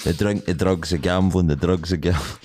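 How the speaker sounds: monotone deadpan voice; deadpan meme voice. Retold or imitated. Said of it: "in the most monotone voice".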